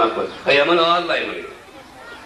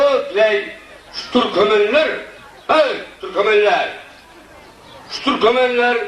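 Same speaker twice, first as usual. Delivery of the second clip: high, raised call to Türkmenler; 6 semitones higher than usual. Acted. The teller hails the Turkmen at the feast, calling high. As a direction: hail the crowd from afar.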